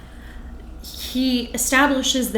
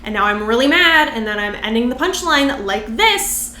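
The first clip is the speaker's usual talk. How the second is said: imitating Ali Wong. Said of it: "the way that she has her cadence".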